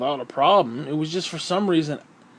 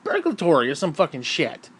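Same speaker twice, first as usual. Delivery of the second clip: high, strained comic voice; a squeaky put-on complaint voice; mock exasperated rant; 12 semitones higher than usual. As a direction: whine it up high in disbelief. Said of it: "And I'm like".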